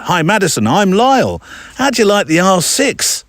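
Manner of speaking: Lyle's voice. Retold or imitated. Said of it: "I should be doing this in a more country-singer accent".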